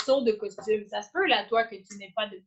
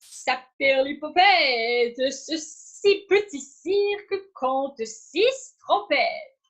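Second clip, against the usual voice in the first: slow tongue twister; 2 semitones higher, 4 dB louder, much slower than usual. Shown as a demonstration. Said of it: "on s'est pratiqué avec la phrase".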